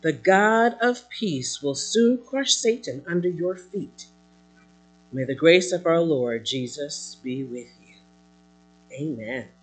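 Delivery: measured, emphatic preacher's reading; emphatic scripture reading. Acted. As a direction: read the apostle's letter out to the congregation. Reads Paul's letter aloud.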